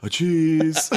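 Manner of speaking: high squeaky bit through laughter; laughing mock quote. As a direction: pop it up high while cracking up. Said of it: "he just turned and was like".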